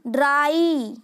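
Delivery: ड्राई with a stretched "aai" ending; slow teacher's ड्राई, ending on a long I; long I sound. Shown as a demonstration. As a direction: draw out the final vowel of ड्राई as a long "eye". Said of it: "long sound आई pronounce किया जाता".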